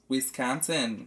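slow, put-on Wisconsin accent. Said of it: "a Wisconsin accent will come out".

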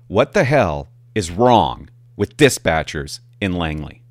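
slow, disbelieving rant; slow, exasperated complaint. Retold or imitated. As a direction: drag it out in exasperation. Exasperated rant about dispatchers.

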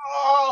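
high-pitched gasp of amazement; mock-awestruck high cry; stunned "oh". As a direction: let out a high, astonished oh. Retelling shock at money collected.

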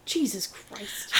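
soft, slow, weary groan of disbelief; quiet slow exasperation; exasperated. Real, not acted. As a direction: drag it out, fed up. Exasperated at author.

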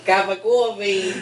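put-on slow Boston accent, falling; Boston accent, flat statement. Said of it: "the worst Boston accent".

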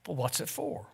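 hushed whispered question. A narrator's reading. Angel asking about the tear, whispered in awe.

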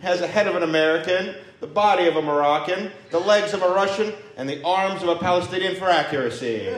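circus barker. Retold or imitated. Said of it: "Yusef would be in a circus".

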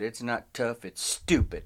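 low, deadpan delivery; deadpan retort. Retold or imitated. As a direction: say it low and dead serious. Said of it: "looked him dead in the eyes and I said".

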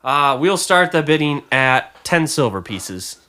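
lightly voiced auctioneer opening the bidding; a hint of an auctioneer's patter. Auctioneer opening bids with what little they have, lightly voiced.

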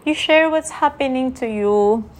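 speaking through a burp; words pushed out around a burp. Real, not acted. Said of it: "I'm burping a lot".

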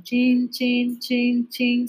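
mimicked footsteps; stepping sound effect. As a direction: tick off each small step with a chin. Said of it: "el encuentro es así gradual".

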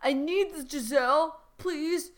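mock-tearful plea; crying out. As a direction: beg desperately, hammed up. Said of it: "and he cried out".

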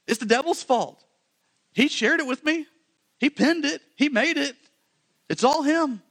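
high, loud, rising panic of excuses; the wife blaming everyone, voice climbing; mock flustered Eve. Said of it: "And she's like".

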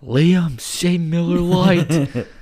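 high, loud, slow call across the room; drawn-out shout to get Liam's attention. Pretend. Hollering at Liam to say the beer name, loud and slow. Calling out to a named friend.

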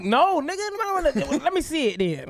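imitating himself calling the bluff; retold reply. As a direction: call the bluff. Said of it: "I'm like".

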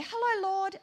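high, chirpy bird-like greeting; little bird voice. Retold or imitated. Woman greeting the Lord in prayer, little bird voice. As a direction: sing it out high like a small bird. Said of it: "in my little bird voice".

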